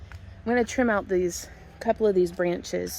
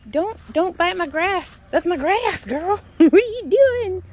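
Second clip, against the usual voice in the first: high, louder laughing scold of the dog; playful scolding; 10 semitones higher, 7 dB louder than usual. Real, not acted. To Millie biting the grass, a high laughing scold. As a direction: tell her off while laughing.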